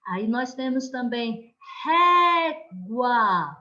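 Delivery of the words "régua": régua with RÉ loud and drawn out; stress on penultimate syllable. Shown as a demonstration. Teacher gives pupils another penultimate example, ré stressed in régua. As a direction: hold the ré, then drop onto gua in régua. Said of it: "na penúltima sílaba".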